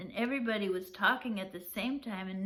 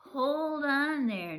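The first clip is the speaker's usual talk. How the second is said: steadying father; 6 semitones higher, 5 dB louder, slower than usual. Acted. Pop calms excited son.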